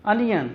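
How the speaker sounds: Onion with a short first vowel. Shown as a demonstration. Teacher models onion for pupils, short vowel. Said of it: "ये एक मोनोथोंग है".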